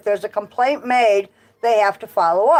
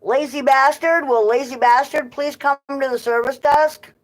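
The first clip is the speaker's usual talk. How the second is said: store PA announcement voice; flat echoey pa page; 4 semitones higher than usual. Retold or imitated. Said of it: "for example".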